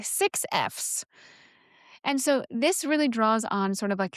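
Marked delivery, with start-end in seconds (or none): 0.0-1.0 "Six Fs" whispered under the breath, trying the sounds again; whispered retry. Shown as a demonstration. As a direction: mouth "Six Fs" to yourself. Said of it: "That is a hard thing to say".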